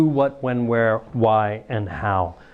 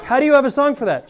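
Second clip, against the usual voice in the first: amazed question; 10 semitones higher, 4 dB louder, faster than usual. Retold or imitated. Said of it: "you'd be like".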